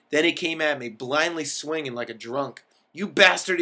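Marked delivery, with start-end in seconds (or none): 2.9-3.6 loud, higher mock shout; a hammed-up comic shout of outrage. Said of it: "he shouted".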